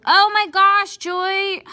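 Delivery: high, loud exasperated scold; shrieking at your own mistake; scolding myself. Acted. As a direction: yell at yourself for a dumb slip. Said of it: "That's how I feel like inside when I mess up".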